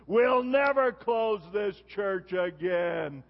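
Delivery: every word slowed and pressed down, a firm promise; slow firm vow. Retold or imitated. Pastor retelling his vow to the deacons, slow and firm. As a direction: lay it down word by word like an oath.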